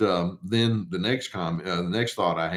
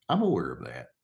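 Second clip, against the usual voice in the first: calm and unbothered; 6 semitones lower, 5 dB quieter than usual. Shown as a demonstration. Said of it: "notice my tone of voice".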